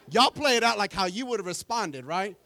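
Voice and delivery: laughing, loud and high. Real, not acted. Pastor teasing the congregation, laughing. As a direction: laugh through the words.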